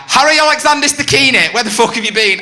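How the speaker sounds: high, loud full-name yell; girlfriend shouting. Retold or imitated. Angry girlfriend yelling at drunk Harry, high loud shout. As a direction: scream his full name in fury. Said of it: "when they shout, they close their eyes".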